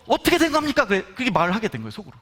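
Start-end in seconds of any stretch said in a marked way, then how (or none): 0.1-0.8 higher, pleading through tears; a retold cry of confusion to God; tearful plea. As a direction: beg for an answer, near crying. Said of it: "막 울면서".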